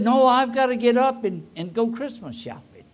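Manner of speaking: agitated protest. Retold or imitated. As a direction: insist on getting up despite the pain. Injured man protests to helper.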